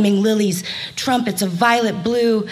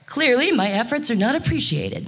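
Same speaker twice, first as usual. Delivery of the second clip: high, proud, puffed-up bird voice; a vain woodpecker showing off; haughty woodpecker; 4 semitones higher than usual. Acted. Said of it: "he puffed up his feathers".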